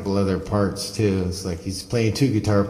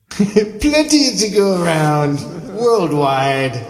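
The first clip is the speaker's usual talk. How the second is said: laughing; 6 semitones higher, much slower than usual. Real, not acted. Laughing echo of friend's line.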